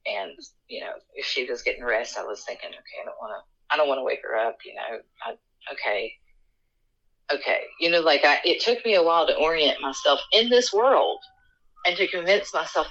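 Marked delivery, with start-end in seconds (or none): 0.1-7.6 hushed. Real, not acted. Whispering so as not to wake.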